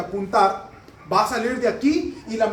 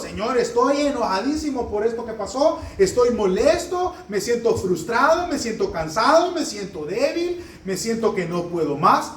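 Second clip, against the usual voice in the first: honest prayer; 4 semitones higher than usual. Pretend. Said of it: "dígaselo a Dios".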